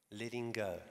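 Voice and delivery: Letting go, repeated softly with a falling end; hushed echo of Letting go. Shown as a demonstration.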